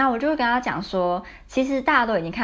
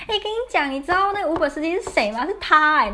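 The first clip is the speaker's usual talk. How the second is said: much higher, breathless with disbelief; excited gossip; 9 semitones higher than usual. Retold or imitated. Friend telling her the Uber driver was him, excited disbelief. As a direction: spill the news like you can't believe it. Friend texting shocking news.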